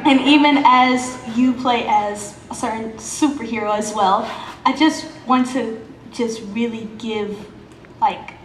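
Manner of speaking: choked-up nervous fan; words catching, barely holding it; stage fright. Real, not acted. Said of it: "I can't even talk".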